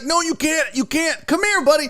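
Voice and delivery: high-pitched urging to a pet; retold pleading. Owner stopping cat with lizard, high retold pleading.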